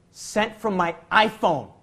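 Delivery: slow deadpan. Retold or imitated. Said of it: "email signature read out".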